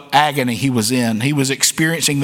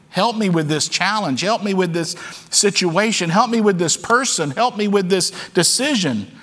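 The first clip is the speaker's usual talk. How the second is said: higher-pitched, insistent acted plea; pleading prayer; 5 semitones higher than usual. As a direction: plead for help, each request pressed a little further. Acted candid prayer for help.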